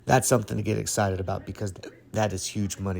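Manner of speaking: talking through hiccups; hiccuping. Real, not acted. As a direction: hiccups breaking the words. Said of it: "Excuse me, I'm hiccuping here".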